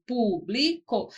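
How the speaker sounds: Público said slowly with a falling end; teacher demonstrating Público slowly; slow demo. Shown as a demonstration. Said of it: "como a palavra público".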